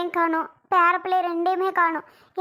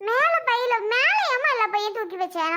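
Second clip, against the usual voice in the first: higher, questioning echo in protest; startled objection; 4 semitones higher than usual. Acted. Daughter hears the bags are up on the rack, startled objection. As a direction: query it sharply, pitch jumping up.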